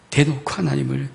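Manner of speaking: usual speaking voice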